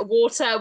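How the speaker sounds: water with a firmly sounded T in the middle; strong British T. Shown as a demonstration. Giving a tip for a British accent, strong T in water. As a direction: hit the T in water, British style. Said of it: "we're real strong on the T's".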